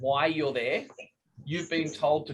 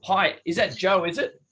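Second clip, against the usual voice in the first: casual opener; 4 semitones higher, 4 dB louder than usual. Shown as a demonstration. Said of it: "I'd be just going straight in with".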